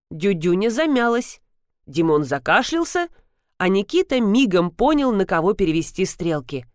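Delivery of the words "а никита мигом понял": plain reading voice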